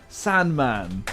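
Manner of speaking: ordinary talk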